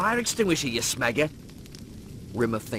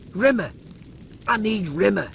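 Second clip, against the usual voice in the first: calling out; 2 semitones higher, 3 dB louder than usual. Acted. Calling out for Rimmer.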